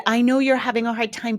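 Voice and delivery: quick, pressured mock validation with stress on you're; rushing past the kid's feelings to your own; oversharing parent. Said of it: "They're oversharing their process".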